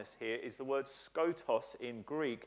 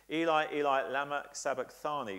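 a louder cry on Eli, Eli; retold scream; 5 dB louder than usual. Preacher voicing Jesus on the cross, mock cry. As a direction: call out the Aramaic words as a restrained preached cry. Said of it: "the Greek word here means he screamed".

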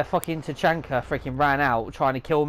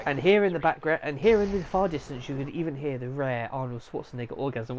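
David Attenborough impression; 4 dB quieter than usual. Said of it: "like David Attenborough doing".

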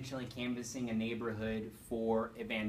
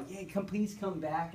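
mildly excited, higher, drawn-out begging; lightly acted happy plea; eager pleading; 5 semitones higher, slower than usual. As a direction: imitate an eager family, slow and higher. Family begging them to return, retold.

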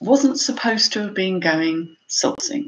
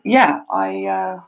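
normal talking voice

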